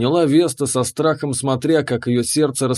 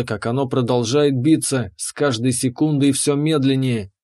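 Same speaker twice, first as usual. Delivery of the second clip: plain reading voice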